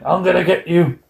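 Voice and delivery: lightly voiced wrestler taunting Hogan; licht gespeelde worstelaar. Voicing Loch Ness threatening Hogan.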